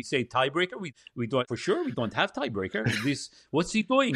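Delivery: bewildered Dutch gallery voice, lightly imitated; mock a baffled Dutch TV crew muttering; Dutch accent. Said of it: "you know, that Dutch".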